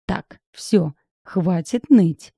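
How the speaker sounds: loud, slow, final rebuke; cutting it off. Acted. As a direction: cut her whining off flat out. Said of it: "отрезала я". (громко, медленно, отрезая)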